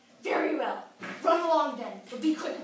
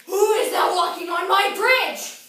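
very high, very loud troll bellow; 17 dB louder than usual. Acted. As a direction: bellow it with full force.

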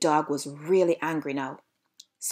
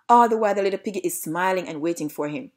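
ordinary delivery, nothing marked

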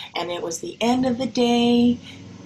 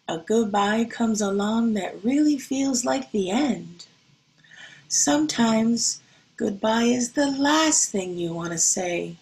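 gentle picture-book reading voice; storybook reading. Acted. Teacher reading a picture book to her class, gentle.

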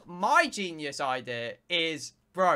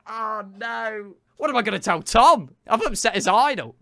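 retold dismay; 4 semitones higher, 7 dB louder than usual. Streamer replaying his fear of having upset Tom's idol, mock panic. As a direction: act out a mock panic, getting louder.

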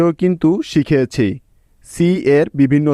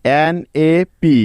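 slow spelling; slower than usual. Shown as a demonstration. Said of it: "সুতরাং".

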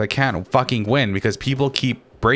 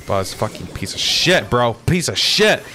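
angry outburst. Real, not acted. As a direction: curse out the player who got you. Raging at Buzz in game.

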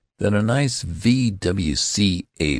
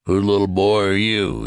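kindly; 4 semitones higher, 5 dB louder than usual. A narrator's reading. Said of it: "he demanded kindly".

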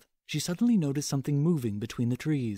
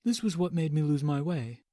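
soft gentle teddy bear; 4 semitones higher than usual. Acted. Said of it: "Winnie the Pooh produced the paper and said".

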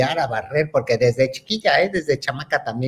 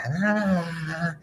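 imitated music intro; 4 semitones higher, 6 dB quieter than usual. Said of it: "y empieza".

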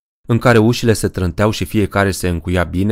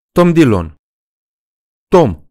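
much higher, louder shocked outcry; startled cry; 7 semitones higher, 6 dB louder than usual. Acted. The frightened women recognise Tom, crying out. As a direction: shout his name in shock and anger.

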